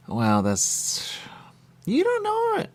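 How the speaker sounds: secretive whisper; whispered quote. Retold or imitated. Quoting him confiding, in a whisper. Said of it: "and he said".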